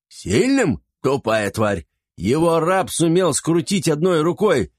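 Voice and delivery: high, furious scolding; angry. Acted. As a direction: sneer and scold. Master berating his servants.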